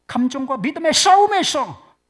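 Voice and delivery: loud, high pulpit exhortation; rally the congregation with conviction; rousing preaching. Real, not acted. Preacher's rousing closing point.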